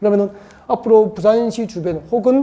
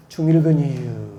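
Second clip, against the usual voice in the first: Chungcheong dialect version; 7 semitones lower, slower than usual. Shown as a demonstration. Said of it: "충청도 버전을 하잖아요".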